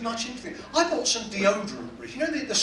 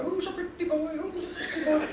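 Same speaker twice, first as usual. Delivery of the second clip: high, squawky talking-bird impression; pitched-up parroting pet bird; budgerigar voice; 8 semitones higher, 3 dB quieter than usual. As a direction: mimic a budgie on its perch. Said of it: "Sat on the perch all day".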